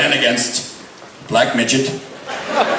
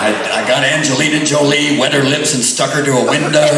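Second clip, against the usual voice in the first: higher, louder manic Nicholson voice; Jack Nicholson impression; 4 semitones higher, 4 dB louder than usual. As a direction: ham up a wild Nicholson brag.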